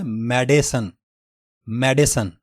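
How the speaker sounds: मेडिसन in three syllables, mɛdesən; second correct pronunciation. Shown as a demonstration. Teacher gives the alternative form. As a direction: keep the middle vowel in मेडिसन. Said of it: "दूसरा तलफ़ुज़ जो दुरुस्त है".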